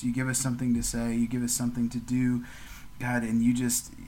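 steady, earnest prayer voice; gentle podcast prayer to God; closing prayer. Real, not acted. Prayer continues.

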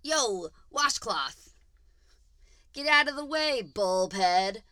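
loud, punchy jeering name-calling; loud high taunt; insulting. Acted. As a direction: hurl them like playground insults. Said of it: "I'll say them like an insult".

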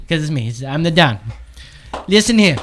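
a so-so Trump taking charge; Trump impression. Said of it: "That's a terrible Trump".

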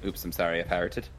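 light mock Irish apology; Irish accent. Shown as a demonstration. Co-host calls back the party-piece line, Irish accent. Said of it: "say with an Irish accent is".

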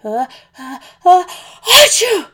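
hitching breaths bursting into a loud achoo; big building sneeze. Acted. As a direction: build up the sneeze then explode. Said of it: "started to feel a sneeze coming on".

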